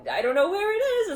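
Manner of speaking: high, loud mock-frantic pet voice; baffled dog. Dog can't find the hidden cookie, baffled wail.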